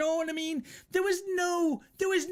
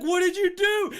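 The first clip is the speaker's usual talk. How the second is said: higher, louder alarmed question; shocked friend; 6 semitones higher, 5 dB louder than usual. Retold or imitated. Friend driving the car, shocked at the shooting, higher and louder. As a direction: sound stunned by what happened. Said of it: "He's like".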